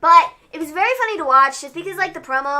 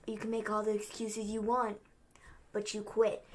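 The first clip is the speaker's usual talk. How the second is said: dismissive; 2 semitones lower, 13 dB quieter than usual. Retold or imitated. Retelling Roman's cool reply to Jay.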